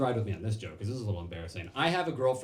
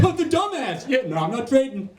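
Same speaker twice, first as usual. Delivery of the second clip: much higher, louder jeering voice; mocking coworker; 12 semitones higher, 10 dB louder than usual. Coworker opening the thirty percent mug, high jeering voice. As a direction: squeal it like a gleeful office jerk.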